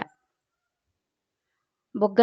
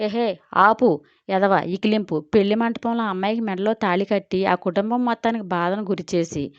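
shouting. Acted. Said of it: "అరిచింది జయగారు".

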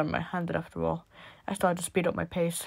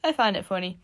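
high, louder boy mocking sleep talk; mimicking sleepy voice; 6 semitones higher, 8 dB louder than usual. A narrator's reading. Boy imitates the narrator's sleep talk, loud high mimicry. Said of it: "He laughed ... mimicking my apparently sleepy voice".

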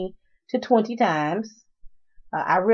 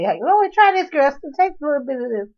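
friend offering a drink; 8 semitones higher, 5 dB louder than usual. Retold or imitated. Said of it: "you give me and say".

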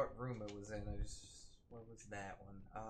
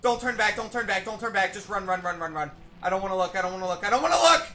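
loud frantic begging, higher; panicked pleading; 8 semitones higher, 14 dB louder, faster than usual. Real, not acted. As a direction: urge yourself on in panic. Fleeing monster, begging himself.

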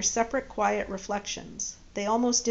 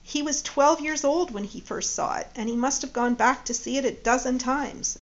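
lightly voiced proud mother; 3 semitones higher, 3 dB louder than usual. Judy proudly talks about her son.

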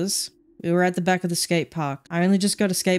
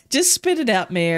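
pushy high mock voice; 4 semitones higher than usual. Voicing the blunt senior doctor.

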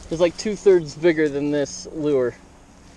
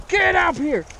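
much higher and louder, whooping with delight; freaking out with joy; 13 semitones higher, 3 dB louder, much slower than usual. Real, not acted. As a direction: yell it like you just landed your biggest fish. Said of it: "I'm freaking out".

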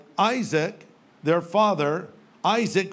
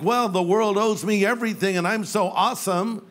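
entitled millennial; 2 semitones higher than usual. Retold or imitated. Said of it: "they think".

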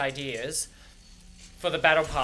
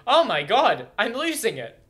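louder, exasperated outburst at herself; losing it; 7 semitones higher, 7 dB louder than usual. Real, not acted. Streamer forgetting a name mid-video, louder exasperated cry. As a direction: throw your hands up and yell it.

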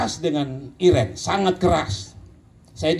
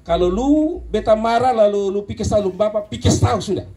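teguran menantang, nada agak naik; bentakan didikan; 4 semitones higher than usual. Retold or imitated. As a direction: tegur dengan nada lebih tinggi, seperti menantang anak didik. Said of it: "kadang-kadang ada waktu saya sedikit bentak". (membentak sedikit)

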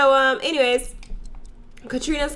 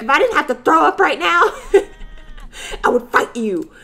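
laughing threat; 7 semitones higher, 4 dB louder than usual. Retold or imitated. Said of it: "She's like".

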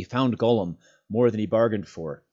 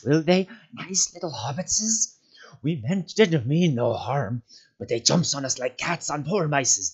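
much higher, pleading, whining creature voice; whimpering Gollum; 7 semitones higher, 5 dB louder than usual. A narrator's reading. Gollum begging the hobbits not to hurt him. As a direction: beg for mercy like a cornered creature.

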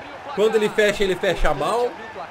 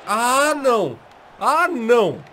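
frustrated groan; 5 semitones higher, 5 dB louder, slower than usual. Real, not acted. Missed goal.

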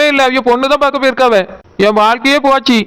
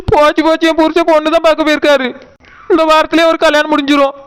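tearful wailing, pitched up; crying; 2 semitones higher than usual. Acted. Wife fearing her husband will remarry, crying. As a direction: lament through tears that all is lost. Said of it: "எதுக்கு இப்படி அழுதுட்டு நிக்க?".

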